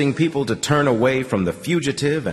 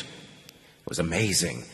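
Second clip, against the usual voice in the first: softer and slower, full of wonder; quiet amazed murmur; hushed awe; 4 semitones lower, 8 dB quieter, slower than usual. A narrator's reading. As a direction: let the wonder hush your voice. Awed narration of escape.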